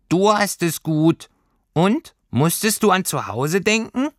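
sehr hohe Figurenstimme; neugieriges Pelztierchen. A narrator's reading. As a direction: forsche als kleines Fabelwesen nach. Tierchen fragt Lilli aus. (hohes, fragendes Stimmchen)

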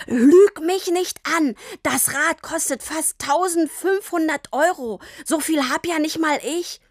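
angry father. A narrator's reading. Papa accuses Tini of stealing the bike, angrily. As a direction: lay into her, stressing each word.

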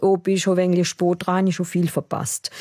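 broad Alemannic, rattled off casually; quick southwest German Alemannic question; Alemannic dialect. Retold or imitated. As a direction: ask it in thick Alemannic dialect. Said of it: "frage ich den in meinem alemannischen Dialekt".

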